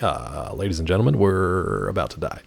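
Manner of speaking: calm captain announcement; airline pilot voice. Retold or imitated. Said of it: "actual pilots who are just like".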